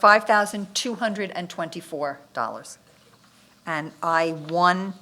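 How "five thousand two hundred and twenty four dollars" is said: repeated a bit slower for clarity. Real, not acted. Bid reader repeats the amount more slowly for the listener. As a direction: say it again, more carefully. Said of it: "you said that fast".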